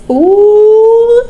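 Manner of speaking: high delighted squeal and laugh. Real, not acted. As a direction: squeal then giggle. Gleeful reaction to blurb.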